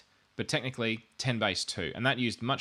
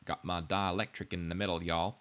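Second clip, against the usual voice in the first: put-on Southern US accent; 3 semitones lower than usual. Teacher jokingly naming the insulator to students, put-on Southern accent. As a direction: say it like a folksy Southerner. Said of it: "keep putting on that accent".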